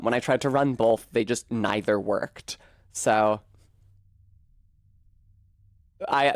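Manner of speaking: lightly played ditzy bimbo; a hint of a gum-smacking floozy. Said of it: "bimbo voice terminated".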